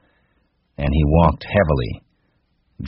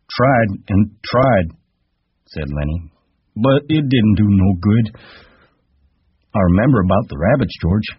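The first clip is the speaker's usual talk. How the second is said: put-on high, childlike giant voice; Lenny asking George timidly; simple Lenny; 5 semitones higher than usual. A narrator's reading. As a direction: ask like a trusting child.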